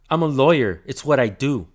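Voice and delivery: imitating a self-important lawyer, punched opening; mock-smug retort, loud at first. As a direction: play him pleased with himself. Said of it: "All fucking smug".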